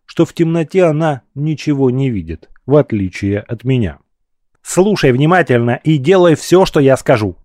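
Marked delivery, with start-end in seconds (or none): 4.6-7.4 tense words through gritted teeth. Acted. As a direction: push it out through clenched teeth. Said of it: "сказала она сквозь сжатые зубы". (сквозь сжатые зубы)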